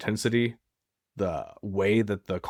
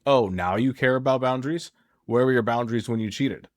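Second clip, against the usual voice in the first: sarcastic; 3 semitones higher, 3 dB louder than usual. Retold or imitated. Betrayed partner mocking the cheater's new boundaries, sarcastic. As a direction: throw the question back with scorn. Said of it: "very sarcastically like".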